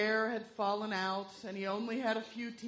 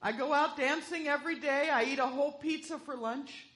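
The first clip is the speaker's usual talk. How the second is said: put-on weak old man voice; 3 semitones higher than usual. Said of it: "said in a weak voice".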